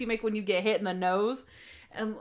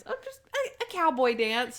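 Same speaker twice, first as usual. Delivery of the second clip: awkward fibbing Natalie; 3 semitones higher than usual. Retold or imitated. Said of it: "What kind of dance?".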